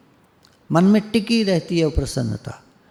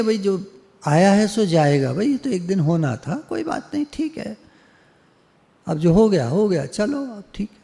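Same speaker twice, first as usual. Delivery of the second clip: consoling guru; 3 semitones higher than usual. Retold or imitated. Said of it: "यही तो कहेंगे".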